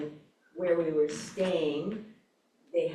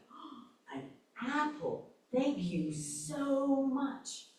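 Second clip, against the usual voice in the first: grateful woman, retold; 9 semitones higher, slower than usual. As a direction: voice a stranger's astonished gratitude, high and slow. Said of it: "And she went".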